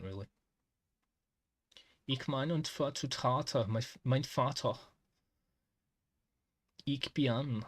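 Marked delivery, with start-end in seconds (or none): 2.1-7.6 mock German accent. Shown as a demonstration. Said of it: "I just try and do German accent".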